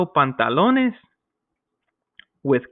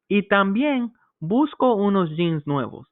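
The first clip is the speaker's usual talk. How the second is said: customer line; 6 semitones higher than usual. Acted. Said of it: "the person says".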